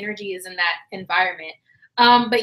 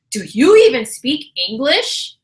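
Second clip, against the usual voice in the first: snide, condescending question; rude; 4 dB louder than usual. Retold or imitated. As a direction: sneer it rudely. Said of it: "she goes in a very rude way".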